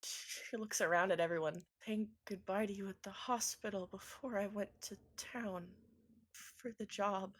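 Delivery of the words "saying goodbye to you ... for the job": tearful promise. Acted. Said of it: "some more tears out of her eyes and says".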